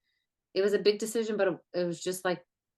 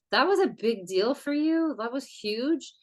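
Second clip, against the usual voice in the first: excited praise; 5 semitones higher than usual. Retold or imitated. Celebrating a friend's big decision.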